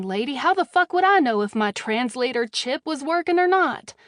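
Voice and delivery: angry retort. Acted. Captive snaps at redhead.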